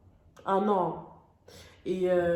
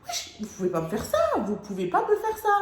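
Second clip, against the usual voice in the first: outraged protest. Retold or imitated. Protesting to parents.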